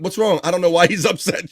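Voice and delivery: a light mock of a puzzled Sean; half-hearted Sean impression playing dumb; imitating Sean.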